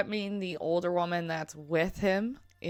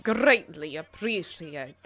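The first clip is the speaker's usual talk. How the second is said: imitated rolled-R accent; 3 semitones lower than usual. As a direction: roll every R hard in a mock accent. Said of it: "He rolls the R's very hard".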